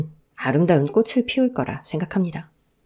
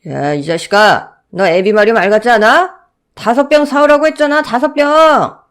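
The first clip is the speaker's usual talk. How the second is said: furious shout, loud and high; drunk father yelling; 5 semitones higher, 7 dB louder than usual. Acted. Drunk father bellowing at his son for bringing one bottle, furious. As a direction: roar at the kid like a drunk.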